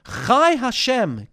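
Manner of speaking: slow, scornful oath, a sneer in the voice; disdainful. Retold or imitated. Gehazi swearing about the Aramean, disdainful. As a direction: spit out the oath with contempt. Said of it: "He's very disdainful".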